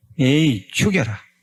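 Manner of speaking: angry shout, in a temper.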